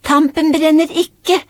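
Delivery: high, slow singsong call; drawn-out, high-pitched mock shout; child calling out. A narrator's reading. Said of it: "ropte Aurora".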